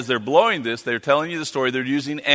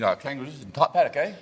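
softer Australian, "kangaroos in top paddock, eh?"; Aussie slang; 4 dB quieter than usual. Shown as a demonstration. Missionary teasing the crowd in Aussie slang, Australian accent. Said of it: "I'm gonna speak the Australian".

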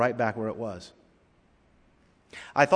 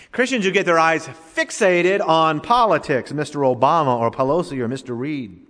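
forceful preaching; 3 semitones higher, 6 dB louder than usual. Real, not acted. Preacher scolding his flock with forceful preaching. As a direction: hammer the first 'Christians who get' line hard. Preacher's rising repeated indictment.

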